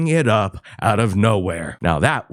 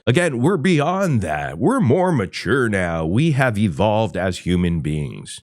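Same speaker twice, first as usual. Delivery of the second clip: mock-earnest, lofty declaration; sweeping claims you plainly don't believe; sarcastic. Real, not acted. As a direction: say it with obvious sarcasm. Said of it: "Sense the sarcasm".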